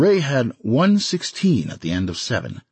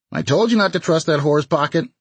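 grinning tease; 9 semitones higher, 4 dB louder than usual. Acted. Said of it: "Ray said, grinning".

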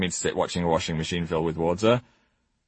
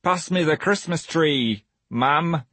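bad Northern English accent; slow, overdone Northern accent; 5 semitones higher, slower than usual. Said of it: "how bad that northern accent was".

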